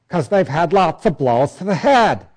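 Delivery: put-on a lightly slurred, punch-drunk boxer voice; punch-drunk talk. Preacher mocking helmetless people, lightly slurred punch-drunk voice. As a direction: mimic a fighter who took too many blows, just a hint. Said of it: "they talk like this".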